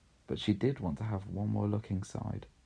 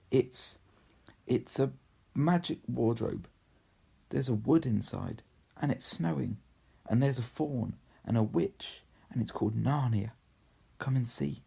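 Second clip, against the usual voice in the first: excited; 4 semitones higher than usual. Acted. Lucy telling her siblings about Narnia, mildly excited. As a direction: share the secret with wonder.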